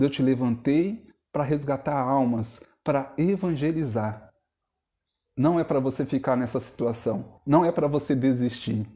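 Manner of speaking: lightly voiced God, low and measured; God's gentle call. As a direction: speak low, as God to a discouraged heart. Voicing God speaking to his heart.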